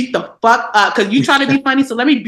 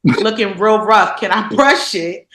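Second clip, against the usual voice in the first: polite ask; 2 semitones lower, slower than usual. Retold or imitated. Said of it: "maybe I should have said".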